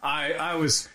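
high, laughing through the words; real laughing. Real, not acted. Storyteller recalling dad's prank to co-host, laughing. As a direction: crack up while trying to talk.

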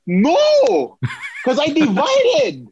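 high, strained whine; panicked high plea. Retold or imitated. Student trainer telling boss Eric about the tape, panicked high plea. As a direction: plead like you're about to be fired.

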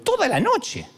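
"toda" lifted high and drawn out; slow emphatic repeat of "toda la noche"; stress on toda. Shown as a demonstration. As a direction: lean hard on "toda" la noche.

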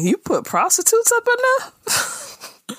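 high, slow disbelief; shocked. Real, not acted. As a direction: sound scandalised. Mock shocked high question.

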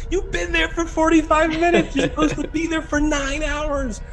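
high, laughing through the words; laughing boss. Retold or imitated. Boss on the phone laughing at his employee. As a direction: chuckle it out at your scared friend. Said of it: "He's just laughing".

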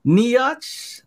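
NIACH as high "nee-atch", rising at the end; joke mispronunciation. Acted. Friend trying out the silly word, high "nee-atch". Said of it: "start saying like that now".

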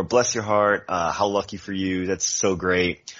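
sweet on top, a knock underneath; passive aggressive. Shown as a demonstration. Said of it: "by the true Southern, in the idea that you are passive aggressive".

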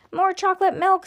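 put-on high-pitched kid's demand; protest yell. A narrator's reading. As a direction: chant it like a protest slogan. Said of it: "Everybody had started yelling".

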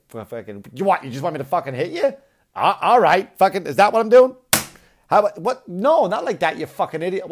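hammed-up blue-collar husband shouting at his wife; mock angry husband. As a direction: yell at her like an exasperated husband. Husband yelling at wife, acted.

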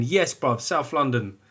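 put-on high-pitched South London urban accent; mock-cool urban London voice. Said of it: "cool fucking urban accent I was doing".

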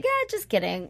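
high, laughing mock retraction; high-pitched, giggly imitation; mock backtracking. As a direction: play a jokey take-back through laughter. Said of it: "It's like".

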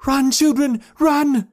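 very high, loud mother's scream; top-of-voice shout. A narrator's reading. Mother joins in warning her children, top-of-voice shout. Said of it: "shouting at the top of her voice".

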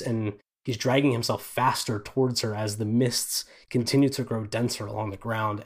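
ordinary talk, nothing marked

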